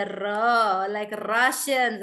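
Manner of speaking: r drawn out slowly as a hard "rra"; rolled heavy R. Shown as a demonstration. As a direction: stretch r hard, as in Russian speech. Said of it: "Russians also talk like this".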